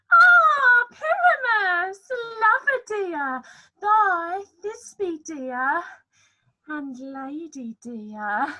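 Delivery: high, loud falsetto lady voice; monstrous little voice. Acted. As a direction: squeak it out like a lovesick lady. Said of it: "I'll speak in a monstrous little voice".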